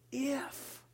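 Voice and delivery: whispered doubt. Acted. Whispered single word of doubt.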